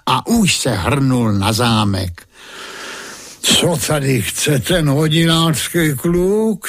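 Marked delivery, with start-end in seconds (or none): 3.4-6.7 high scornful mocking question; a king sneering at a nobody; lightly voiced haughty king laughing at the boy. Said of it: "smál se král".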